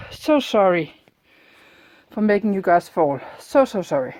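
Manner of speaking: breathless after the stairs; panting between words; out of breath. Real, not acted. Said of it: "I'm still out of breath".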